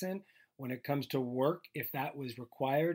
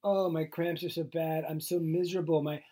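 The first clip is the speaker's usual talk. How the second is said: mock complaining; 3 semitones higher than usual. Husband imitating wife's complaints about cramps, mock moaning. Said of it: "kind of like when you complain".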